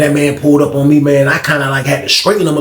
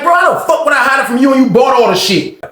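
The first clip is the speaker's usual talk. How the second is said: retold shout; 9 semitones higher than usual. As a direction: yell it at him, fed up. Heated argument with Frank.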